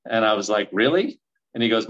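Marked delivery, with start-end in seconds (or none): 0.7-1.2 high, louder disbelieving question; incredulous, rising sharply; retold surprise. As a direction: act out being taken aback, voice jumping up. Retold reaction to accepted deal.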